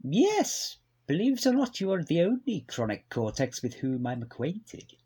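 lightly voiced stuffy posh gent; a hint of a posh old gentleman; posh man. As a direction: play a prim upper-class record boss. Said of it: "Giles is a posh man".

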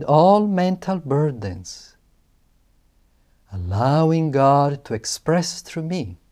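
slow, deliberate affirmation, firm then fading; slow solemn affirmation. Shown as a demonstration. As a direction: chant each phrase like a vow. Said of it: "repeat aloud this affirmation".

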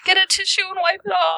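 high, fast shout; shouted order. Acted. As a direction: yell it at her across the room. Player calls out in character.

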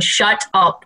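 restrained inner telling-off; your inner voice warning you, at everyday pitch; lightly voiced self-scolding. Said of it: "that internal voice is going".

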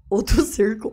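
ordinary talk

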